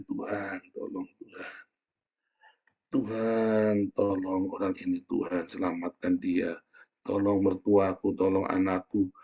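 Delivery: slow, subdued plea to God; moaning prayer. Acted. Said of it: "Tapi tiap bising kamu merintih". (doa merintih, pelan memohon)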